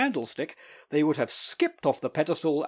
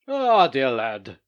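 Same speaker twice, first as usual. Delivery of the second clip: hearty greeting; 9 dB louder, slower than usual. Acted. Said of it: "greeted him".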